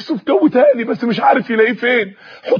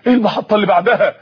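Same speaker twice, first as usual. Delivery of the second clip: quick "إيه المحطة اللي بعدها؟" that falls at the end; eager question; faster than usual. Acted. Eager young man asks back. ("إيه المحطة اللي بعدها؟" سؤال سريع متلهف)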